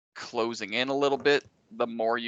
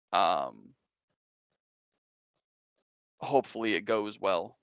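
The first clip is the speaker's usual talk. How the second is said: deep burly voice; slower than usual. Acted. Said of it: "a deep, burly voice say".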